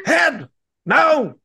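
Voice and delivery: high, loud teasing yell; mock shout. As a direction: yell it in playful disbelief. Mocking the Heed nickname.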